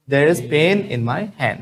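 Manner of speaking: said very slowly and clearly for the class; very slow model sentence. Shown as a demonstration. Teacher models the sentence slowly for students to repeat. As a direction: drag each word out as a model. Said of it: "बोलो".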